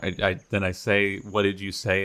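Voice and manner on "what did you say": less accusatory. Acted. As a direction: ask it mildly, without blame. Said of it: "in a less accusatory tone".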